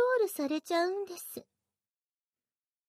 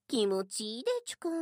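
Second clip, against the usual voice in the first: mocking baby talk; 4 semitones lower, faster than usual. Mocks listener in baby talk.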